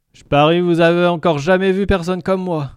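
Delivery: high, loud gurgling alien; gurgling tentacle alien. Acted. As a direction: boom it out as the creature. Lintel alien voice.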